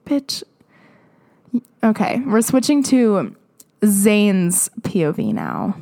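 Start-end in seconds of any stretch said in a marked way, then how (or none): 0.1-0.4 sighed insult. Real, not acted. Exasperated reaction to the story.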